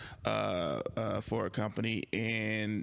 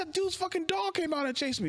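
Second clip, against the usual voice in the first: mock frantic telling, much higher pitched; retold frantic explaining. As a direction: rush it out as if still panicked.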